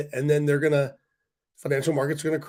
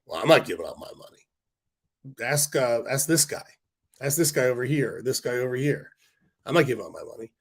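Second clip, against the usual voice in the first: rich guy voice. Retold or imitated. Rich person voiced refusing to pay.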